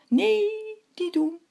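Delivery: loud, high-pitched alarmed cry. A narrator's reading. The moon tries to stop the hare, crying out. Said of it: "riep de maan".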